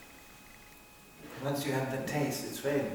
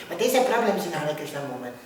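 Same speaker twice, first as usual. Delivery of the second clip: mock complaint; faster than usual. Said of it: "we sometimes go".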